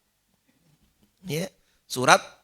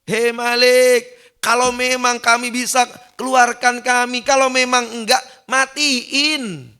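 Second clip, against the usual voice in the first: higher, louder desperate pleading; begging sinner; 6 semitones higher, 3 dB louder, slower than usual. Acted. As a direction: beg to be let out or killed. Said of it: "Ngomong dong sama Allah".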